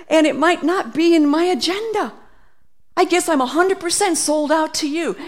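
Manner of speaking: excited devotion. Acted. Preacher voices a devoted believer.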